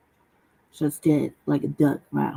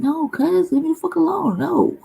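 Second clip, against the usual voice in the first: mock annoyed brush-off; 10 semitones higher than usual. Retold brush-off to brother.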